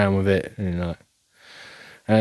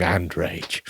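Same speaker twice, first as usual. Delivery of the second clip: low mumbled and rage; 5 semitones lower, 6 dB quieter than usual. Shown as a demonstration. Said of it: "I'm just going".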